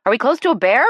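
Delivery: loud, high, alarmed question; half shout. A narrator's reading. Jill panicking at the guide, half shouting. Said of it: "Jill half shouted".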